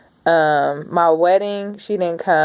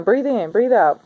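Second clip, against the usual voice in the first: sister coaching; 4 semitones higher than usual. Retold or imitated. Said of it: "she be the one".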